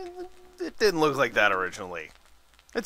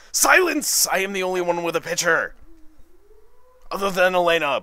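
booming, much higher and louder royal decree; mock proclamation; 6 semitones higher, 4 dB louder than usual. Hammed-up gamer proclaiming to the party, mock booming. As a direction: shout it like a pompous king silencing a court.

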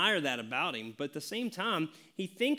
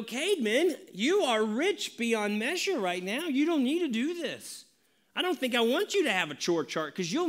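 teasing dad; 5 semitones higher than usual. Retold or imitated. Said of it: "I look at Cademan and I go".

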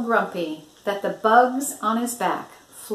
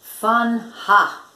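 louder scornful buffalo boom; booming scoff; 3 semitones higher, 6 dB louder than usual. Acted. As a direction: scoff it out loud like a grumpy buffalo. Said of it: "boomed Bismarck".

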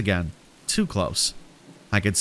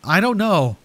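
high-pitched exasperated yell; 8 semitones higher, 4 dB louder than usual. A narrator's reading. Narrator shoving off the frantic stranger, yelling. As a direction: raise the pitch and cry it out. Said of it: "I yelled".

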